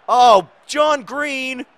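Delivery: slow, high, loud cheer; cheering shout. Real, not acted. Gamer cheering his player, a slow high shout.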